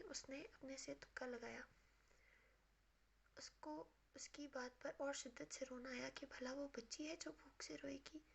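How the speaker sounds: hushed, breathy storytelling read; soft story narration. A narrator's reading. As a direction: read it softly like a bedtime novel. Reads romance novel narration.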